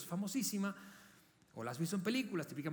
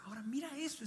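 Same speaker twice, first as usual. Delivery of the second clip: usual speaking voice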